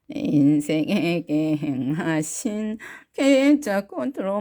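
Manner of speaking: 살짝 낮춘 할머니 흉내; 할머니 목소리. Pretend. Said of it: "할머니 목소리로 한번 불러볼까요". (가볍게 흉내 낸 할머니 목소리)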